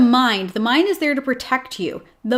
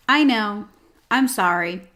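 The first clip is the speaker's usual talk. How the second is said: even, unhurried commiseration with a cat; matter-of-fact soothing. Shown as a demonstration. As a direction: soothe the cat without any fuss. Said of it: "It's that very matter-of-fact energy".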